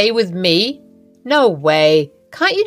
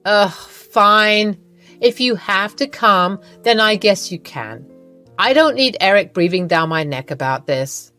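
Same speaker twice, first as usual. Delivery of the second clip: grudging consent. Acted. Iva reluctantly lets Lily come, exasperated. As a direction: give in with bad grace.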